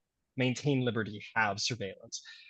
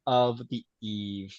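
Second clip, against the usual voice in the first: louder, stately host opening the last question; formal host; 4 dB louder than usual. Acted. Host addresses the debate hall, stately and grand. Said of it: "and it says".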